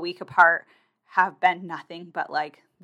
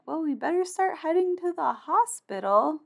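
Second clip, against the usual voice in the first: resigned decision; 10 semitones higher, 4 dB quieter than usual. Retold or imitated. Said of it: "I'm like".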